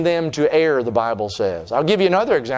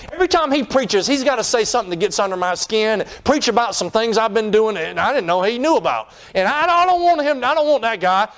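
higher-pitched griping king; mock complaint; 5 semitones higher than usual. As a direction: gripe in lightly hammed-up protest. Acting out Ahab's complaint.

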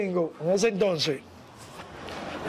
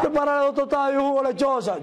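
higher-pitched order as the gringo; lightly voiced boss giving an order, pitched up; put-on high ordering voice; imitated gringo; 4 semitones higher than usual.

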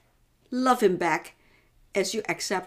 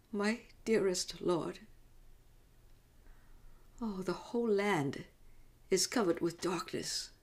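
tender grieving mother; 2 semitones higher than usual. Acted. Mother to her son John and dearest Lord, tender sorrow.

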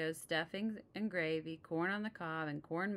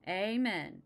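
group amen; 3 semitones higher, 6 dB louder than usual. Acted. Everyone answers, laughing.

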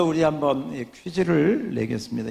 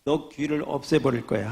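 angry threat; 4 dB louder than usual. Acted. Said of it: "화가 나서 크게 소리를 쳤습니다".

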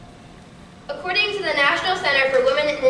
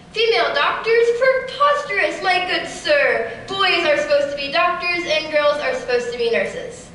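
imagined sixties chauvinist. Retold or imitated. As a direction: ham up a stuffy gentleman from the sixties. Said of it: "this is how I imagine people spoke in the nineteen sixties".

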